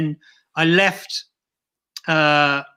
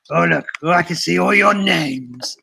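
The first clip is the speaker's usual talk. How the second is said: creepy puppet voice; 4 dB louder than usual. Acted. Puppet eyes viewers' names.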